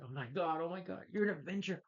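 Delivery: high, hushed mock awe; starstruck Ned. Ned discovering his friend is an Avenger, high and awed. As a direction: gasp it like a starstruck kid. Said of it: "It's like".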